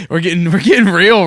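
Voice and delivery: bursts out laughing, then talks through the laugh; real laughter. Real, not acted. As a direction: laugh off how dark the talk got. Laughs at getting heavy topic.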